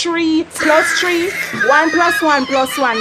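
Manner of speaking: slow, loud sums; loud drill. Acted. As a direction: shout out the sums. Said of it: "shouting the sums".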